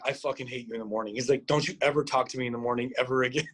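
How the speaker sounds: low, quick mock grudge; retold fuming. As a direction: grumble it low and fast, lightly acted. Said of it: "and he's just fuming".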